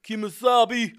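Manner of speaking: high, loud cheesy dub voice; bad dubbed line. Showing a friend the dubbed line, hammed-up. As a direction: ham up the ridiculous TV edit. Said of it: "So it literally goes".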